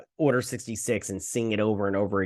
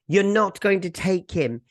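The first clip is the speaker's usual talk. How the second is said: put-on higher-pitched girl standing firm; imitated defiance; 7 semitones higher, 4 dB louder than usual. Girl defying Gunji's captors, imitated high-pitched defiance. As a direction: act out a firm refusal, pitched up.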